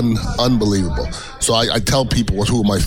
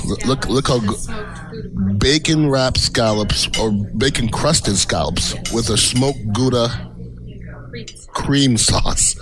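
drawn-out foodie awe; savoring; 2 semitones higher, much slower than usual. Real, not acted. Savoring the scallops.

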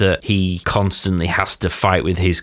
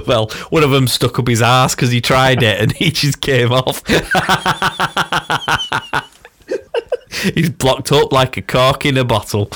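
talking through real laughter, pitch lifted; laughing; 5 semitones higher than usual. Real, not acted. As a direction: crack up while telling the joke. Cracking up at his own joke.

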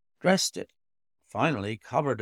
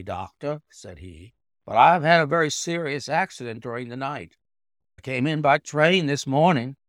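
put-on raised, urgent young man; young gentleman voice; 3 semitones higher, 6 dB louder than usual. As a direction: speak up, pressed and anxious.

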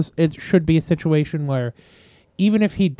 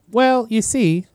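put-on Wisconsin accent; 7 semitones higher, slower than usual. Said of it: "I can't lock in on the accent".

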